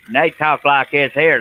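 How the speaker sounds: drawn-out, slow Texan; mock Texan drawl for a friend; Texan accent. Shown as a demonstration. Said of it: "Nick just needs to talk in Texan".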